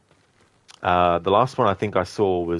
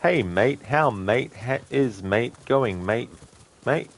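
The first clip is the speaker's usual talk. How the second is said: put-on Australian accent; 4 semitones higher, slower than usual. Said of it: "Australians always put "mate" after every word".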